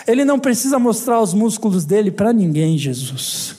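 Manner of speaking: a hint of a pious praying sister; mocking prayer. Sister prays about a muscled brother, lightly mocking. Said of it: "Tem irmão que vem embalado a vácuo".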